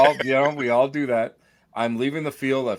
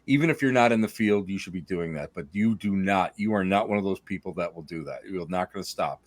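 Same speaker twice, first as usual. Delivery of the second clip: quoted friend's voice; 5 semitones lower than usual. Retold or imitated. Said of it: "you said to me".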